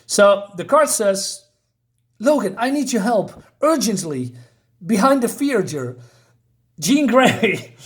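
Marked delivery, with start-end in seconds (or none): 2.2-7.7 higher-pitched, mildly urgent plea; dramatic note reading. Acted. Card summoning Logan behind the theater, read with mock urgency.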